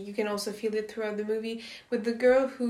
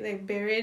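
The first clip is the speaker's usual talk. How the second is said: "buried" with a questioning rise; checking pronunciation. Real, not acted. Speaker checking a word with friends, "buried" rising as a question. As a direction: lift "buried" at the end, unsure it is pronounced right. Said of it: "Is that how you say it?".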